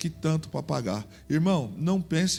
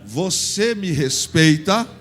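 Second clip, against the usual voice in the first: slow, loud lingering question; drawn-out loving ask; tender question; 8 dB louder, much slower than usual. Shown as a demonstration. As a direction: ask it slowly like a sweetheart. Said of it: "fala com uma voz assim".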